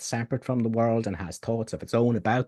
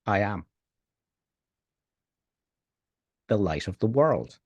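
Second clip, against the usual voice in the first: contemplative hush; 3 semitones lower than usual. Acted. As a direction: guide them into stillness. Contemplative invocation.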